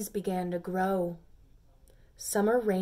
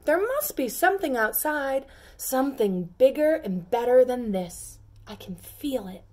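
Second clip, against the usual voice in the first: eager pea; 4 semitones higher, 5 dB louder than usual. Acted. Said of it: "asked the first pea".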